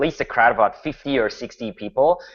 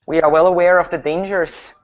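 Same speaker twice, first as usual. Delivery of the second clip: slightly raised, reproving woman's voice; stern older woman; 5 semitones higher, 3 dB louder than usual. Acted. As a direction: answer curtly as a disapproving older villager. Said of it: "like an older woman, gives you a, a pretty stern look".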